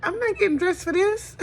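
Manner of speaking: high, put-on voice that brushes it off; mock dismissive voice. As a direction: mimic someone too lazy to dress up. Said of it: "we saying".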